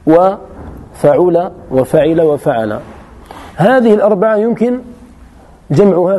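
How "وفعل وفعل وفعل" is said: وفعل وفعل وفعل said very slowly, each pattern drawn out; slow spelled-out patterns. Shown as a demonstration. Teacher spelling out the verb patterns for students, very slow. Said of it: "فحوى كلامه أن الفعل المجرد له أربعة أبنية".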